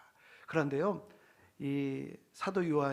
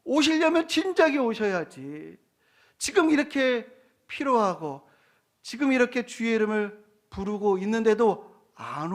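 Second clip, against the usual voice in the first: loud, high-pitched mock complaint; acted indignant challenge; scoffing; 6 semitones higher, 6 dB louder than usual. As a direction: protest as a scornful doubter. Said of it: "이렇게 부정하고 조롱했다라는".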